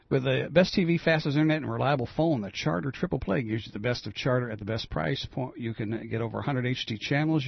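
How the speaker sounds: upbeat commercial pitch, clear and selling; radio ad read. Acted. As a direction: read it like a live sponsor spot. Host reads a radio ad.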